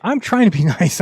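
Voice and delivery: laughing through the words; half-laughing protest. Retold or imitated. Laughing retort.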